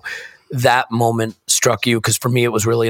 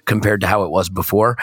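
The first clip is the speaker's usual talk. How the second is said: croaky morning-after voice. Real, not acted. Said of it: "if you think my voice sounds croaky now".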